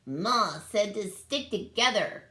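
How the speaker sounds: worried cry. Acted. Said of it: "cried Niklawixka".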